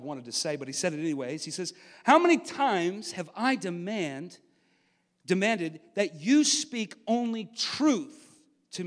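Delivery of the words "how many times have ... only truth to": slow, weighty royal demand; mildly stern king, drawing out each word; sharp retort. Acted. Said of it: "the king replied sharply".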